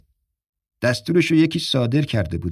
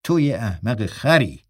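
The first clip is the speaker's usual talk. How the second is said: slow scolding; 2 semitones lower, slower than usual. Acted. Dalen scolds Bishop.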